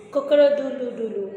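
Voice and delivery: fast cock-a-doodle crow; playful rooster call. Shown as a demonstration. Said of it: "I can crow like a cock".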